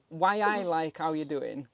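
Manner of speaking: drawn-out Geordie greeting, imitating a mate; Geordie catchphrase. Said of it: "is one of the things he says".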